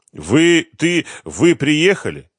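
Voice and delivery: high, loud nervous stumbling; drawn-out, rattled question; flustered stammer. A narrator's reading. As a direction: stumble over the words in a panicky high voice. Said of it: "пробормотал Семён".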